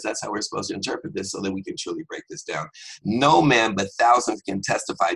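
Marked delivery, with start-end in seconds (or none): 3.0-5.1 loud, rising preacher's declaration; preaching proclamation. Real, not acted. Preacher declaring the verse to his listeners, loud. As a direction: proclaim it to the congregation.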